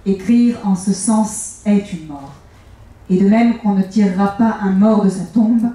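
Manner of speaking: measured, solemn reading of a text; host reading Kafka's words aloud to open the interview, solemn; literary reading. Acted. Host reads a Kafka passage.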